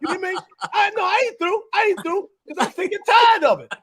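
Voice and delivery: lightly voiced fiery soul singer ranting; impression of a soul singer. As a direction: play a cranky old star who won't be told what to do, only lightly put on. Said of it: "impersonation".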